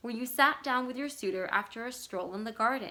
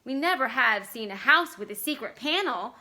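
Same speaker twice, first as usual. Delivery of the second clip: shrieking; 2 semitones higher, 5 dB louder than usual. Acted. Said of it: "June Star shrieked".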